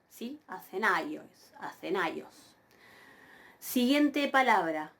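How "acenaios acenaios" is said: acenaios with a clear ai glide; pronunciación modelo. Shown as a demonstration. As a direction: stress the A of ai in acenaios. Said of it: "Pero yo pronuncio ai". (acenaios, con ai en una sílaba)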